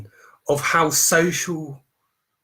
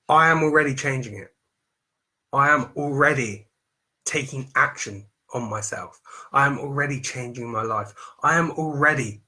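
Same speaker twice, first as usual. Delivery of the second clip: confident present tense. Shown as a demonstration. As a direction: own it as already happening. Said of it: "Have you seen the change in the tonality?".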